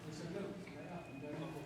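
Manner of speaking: soft Scottish accent. Shown as a demonstration. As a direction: speak softly with a Scottish lilt. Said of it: "Because I'm Scottish".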